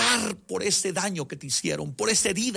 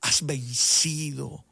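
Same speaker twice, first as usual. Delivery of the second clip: tender Jesus; 3 semitones lower, slower than usual. Retold or imitated. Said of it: "como si Jesucristo me dijera".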